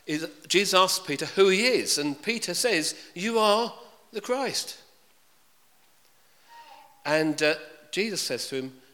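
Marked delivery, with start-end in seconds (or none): 3.2-4.8 awed confession. Acted. Peter's confession quoted in sermon.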